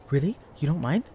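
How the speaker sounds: suddenly loud, eager question; excited loud. Real, not acted. Librarian too loudly accepts the student's offer of help. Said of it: "that was loud".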